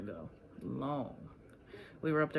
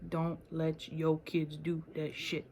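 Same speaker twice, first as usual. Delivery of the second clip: slower, leaning on "your"; slow mock-stern repeat; slower than usual. Shown as a demonstration. Repeating the warning to viewers in a slow mock-stern voice.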